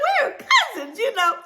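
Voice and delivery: high loud happy cry; thrilled exclamation; excited shout. Retold or imitated. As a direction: shout it with joy. Joyful discovery.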